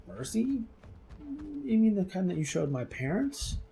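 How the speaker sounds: acting out an affronted refusal; scornful disbelief. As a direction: throw the plea back as an indignant question. Giant scorns the dwarves' plea.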